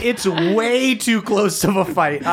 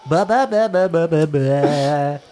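answering frog chant, falling away; bullywug chorus; slower than usual. Acted. Bullywug crowd returns Saul's greeting, frog-chorus call. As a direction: bleat back a run of bullywug calls. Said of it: "you hear a chorus of bullywugs, uh, return".

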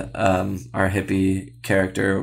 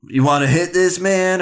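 stoner offering a joint; 9 semitones higher, 4 dB louder than usual. Retold or imitated. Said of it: "you gotta do, like, a".

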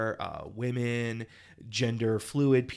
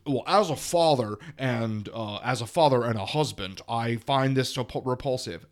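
mocking pompous men. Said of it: "there were men who were like".

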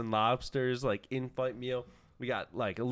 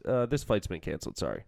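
matter-of-fact; 5 semitones lower than usual. Retold or imitated. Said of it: "he just matter-of-factly goes".

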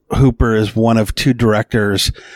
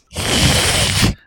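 cat hiss. Pretend. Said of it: "you can give me a cat hiss".

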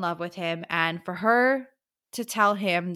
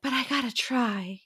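lightly plucky, higher-pitched voice; a touch of plucky determination, pitched up; Feyre; 4 semitones higher than usual. Acted. Podcaster retells the heroine insisting on going, lightly plucky. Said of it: "plucky Feyre's like".

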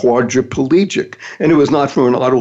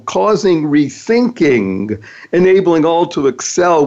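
slow emphatic repeat; slower than usual. Shown as a demonstration. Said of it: "create is a wonderful acronym".

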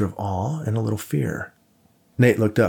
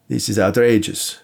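exclaiming; 4 dB louder than usual. A narrator's reading. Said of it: "Krasinski exclaimed".

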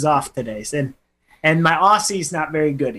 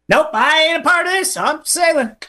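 mock escapee; 10 semitones higher than usual. Acting out Douglass escaping.

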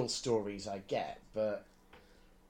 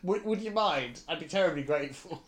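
overly polite; 3 semitones higher than usual. Pretend. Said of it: "go all out".

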